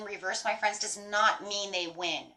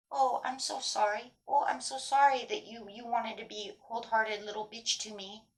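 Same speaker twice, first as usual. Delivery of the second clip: mock apology; 2 semitones higher, 4 dB quieter than usual. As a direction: apologize with sugary sarcasm. Acts a sarcastic apology to offender.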